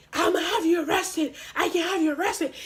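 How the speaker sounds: lightly mocked big-guy threat; imitating a threatening official. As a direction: mimic him laying down a threat. Acted threat from school employee.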